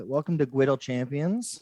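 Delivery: "Gwiddle" said with gw in place of the gr of griddle; says w for l. Pretend. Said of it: "All L's are W today".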